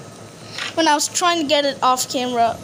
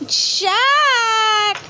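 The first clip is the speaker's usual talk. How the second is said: shouting a name; 5 semitones higher than usual. Real, not acted. Shouting for Jack.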